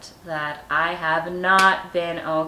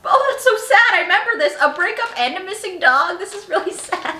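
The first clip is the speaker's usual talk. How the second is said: mock sad; 12 semitones higher, 6 dB louder than usual. Mock pity at own diary.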